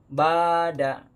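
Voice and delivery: very slow "bada" with the "ba" drawn out and the "da" cut short; wrong reading. Shown as a demonstration. Showing students the doubly wrong "bada". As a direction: stretch the "ba" and clip the "da" in "bada". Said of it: "Ah, salah".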